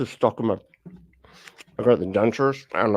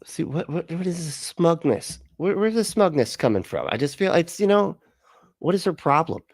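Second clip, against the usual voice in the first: incredulous; 6 semitones higher than usual. Real, not acted. Mocking the preacher's smugness.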